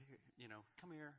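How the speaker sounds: lightly voiced tender father; gentle comforting. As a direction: soothe a frightened child. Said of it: "he's going to say".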